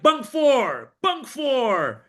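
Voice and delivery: high called-out "bunk four"; calling out. Retold or imitated.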